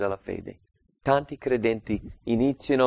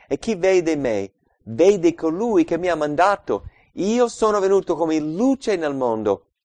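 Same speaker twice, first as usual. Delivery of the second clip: crying out; 6 semitones higher, 5 dB louder than usual. A narrator's reading. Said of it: "Ora Gesù gridò".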